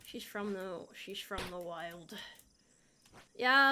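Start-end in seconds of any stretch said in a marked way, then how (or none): 0.0-2.2 mock wild voice. Mock answer for chat.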